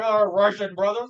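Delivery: light mock Russian accent. Co-host mimicking friend with bottle, mock Russian accent. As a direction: imitate a drunk friend's Russian. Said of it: "I went Russian".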